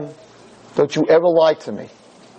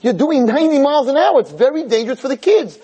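mock wife yelling; 6 semitones higher than usual. Wife in front seat scolding speeding husband, mock yell. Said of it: "is screaming in the front seat".

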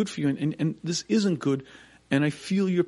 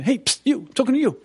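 high urgent call for attention; psst; 9 semitones higher, 5 dB louder than usual. Retold or imitated. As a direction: hiss to get their attention, then call. Mysterious voice hissing for attention.

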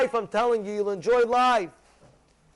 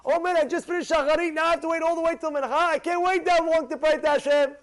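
eager, higher, rushing the middle; impatient to pray again; excited; 4 semitones higher than usual. Retold or imitated. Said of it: "he's gonna get excited to pray again".

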